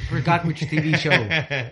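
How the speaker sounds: stiff, slow robotic monotone. Pretend. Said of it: "Why are you talking like a robot".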